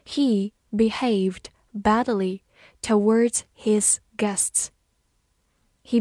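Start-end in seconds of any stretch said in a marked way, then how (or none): 0.1-4.7 slow, word by word with gaps; slow reading. Shown as a demonstration. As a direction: read it out slowly for learners, pausing between words. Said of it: "慢慢来读". (慢慢地逐词朗读)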